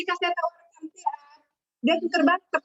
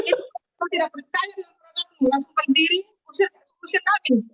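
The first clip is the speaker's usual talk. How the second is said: retold angry demand, louder and choked; angry husband; 3 semitones higher, 5 dB louder than usual. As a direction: drive the guests out in anger. Angry husband orders them out. (suami marah mengusir tamu dengan suara keras)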